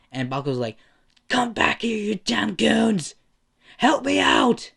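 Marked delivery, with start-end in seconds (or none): 1.3-4.7 high, loud acted shout; yelling after them. Stuck bully to his departing goons, yelling for help. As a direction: holler angrily for help, pitched way up.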